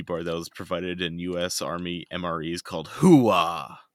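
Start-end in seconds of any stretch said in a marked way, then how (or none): 2.9-3.8 military shout. Pretend. Reading military bar name.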